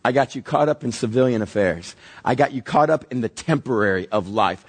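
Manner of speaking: a schemer savoring his trap; gloating enemy. Acted. The enemy taunts the caught believer, low and sly. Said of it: "He goes".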